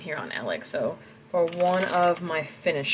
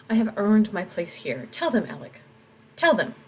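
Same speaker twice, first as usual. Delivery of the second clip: louder, insistent; raised plea; 3 semitones higher, 4 dB louder than usual. Acted. Tomas demanding Alec speak up, raised and insistent. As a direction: push the claim hard.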